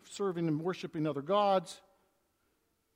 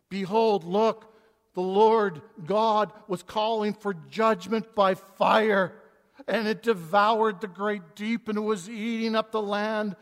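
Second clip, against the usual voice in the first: loud, slow scripture read; 5 dB louder, slower than usual. Acted. Reading the vision of fire.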